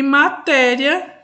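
"matéria" slow and loud, syllables stretched; drawn-out syllables. Shown as a demonstration. Teacher showing the class a trissílaba, "matéria" in drawn-out syllables. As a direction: sound out "matéria" slowly and firmly, part by part. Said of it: "separe-as em sílabas".

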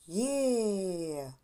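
long, falling cheer on «є»; joyful exclamation. Shown as a demonstration. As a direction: cheer «є» with the children, held long. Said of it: "ви будете радіти і вигукувати". (протяжний радісний вигук «є»)

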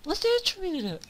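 high, loud frantic shouting; frantic yelling. Real, not acted. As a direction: yell while hunting him. Frantically searching the enemy.

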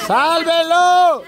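high, slow, drawn-out call; urgent plea. Real, not acted. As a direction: beg them to save it. Urging a rescue from river.

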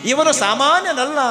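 high, emphatic wonder; storyteller voicing amazed onlookers; acted astonishment. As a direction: marvel aloud at the child. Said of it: "ನೋಡಿ ಆಶ್ಚರ್ಯಚಕಿತರಾದರು".

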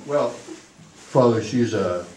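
put-on low, slow-starting New York accent; lightly put-on New York accent. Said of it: "he said in his New York accent".

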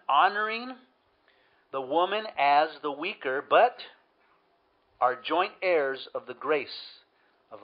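slow, emphatic Bible reading; measured preacher reading aloud; Scripture reading. Real, not acted. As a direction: read the verse out deliberately, leaning on key words. Reads Scripture aloud to congregation.

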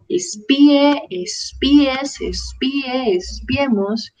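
"espíe" with the í stressed as its own syllable; acento en la I. Shown as a demonstration. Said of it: "llevan tilde en la I". ("espíe" con la í tónica, separada de la e)

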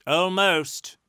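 calling back. A narrator's reading. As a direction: holler back across the barn. Answers a call from the hayloft.

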